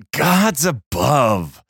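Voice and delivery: growled. Acted. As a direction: drag it out in a growl. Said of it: "growled Pavel".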